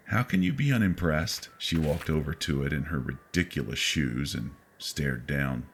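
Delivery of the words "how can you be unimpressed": snapping. A narrator's reading. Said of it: "I snapped".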